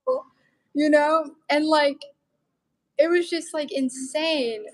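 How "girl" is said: high, marvelling lilt; amazed disbelief. Real, not acted. Telling a friend she got into neuropsychology, amazed and high. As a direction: sound like you can't believe your luck. Marvelling at her own acceptance.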